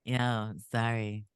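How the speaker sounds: hoarse, stuffed-up flu voice; sick voice. Real, not acted. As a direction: talk through a bad cold. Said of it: "just in this voice".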